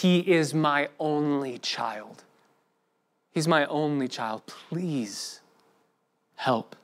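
a hint of a father near tears, slow and soft; a desperate father's soft, slow plea, lightly voiced; tearful pleading father. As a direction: plead quietly for an only child, voice sinking away. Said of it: "You can see the tears streaming down his face".

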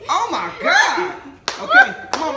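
high nervous shout. Real, not acted. Bracing for slap.

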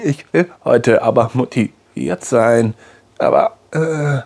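slow, mumbled words swallowed in anxiety. Shown as a demonstration. Anxious person showing viewers how their words get swallowed, mumbled. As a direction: let the words sink back into the throat. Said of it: "dass die Worte sich reinschlingen".

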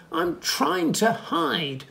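slow anxious elephant; hiding elephant. Acted. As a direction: drag it out like a nervous elephant. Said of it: "said an elephant".

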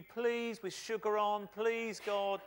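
high, wheedling plea; hammed-up pleading to win God over; mock begging. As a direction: coax and beg in parody. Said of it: "as if you've got to convince God".

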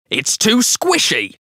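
mouth full. A narrator's reading. Husband grumbling to wife, slow with mouth full. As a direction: drag it out round a mouthful. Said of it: "talking with his mouthful".

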